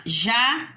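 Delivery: "janela" split JA... NE... LA; syllable by syllable. Shown as a demonstration. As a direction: say "janela" as three separate beats with pauses. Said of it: "saiu o som da minha voz".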